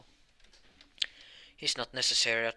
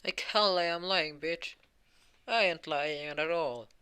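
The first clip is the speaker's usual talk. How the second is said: higher and louder, spitting out like hell; furious denial; 6 semitones higher, 6 dB louder than usual. Acted. Ost furiously denies lying to Morse. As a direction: rage at the accusation.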